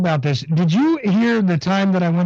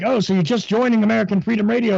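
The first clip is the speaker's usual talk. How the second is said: higher, lightly imitated question; Vinny Eastwood; 5 semitones higher than usual. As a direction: mimic a host's question slightly. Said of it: "it's like".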